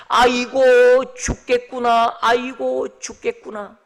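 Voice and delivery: drawn-out, lamenting cry; mock wailing. David's weeping servants wailing in despair, mock lament. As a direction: lament it slowly like mourners. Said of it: "울면서 그렇게 통곡했을".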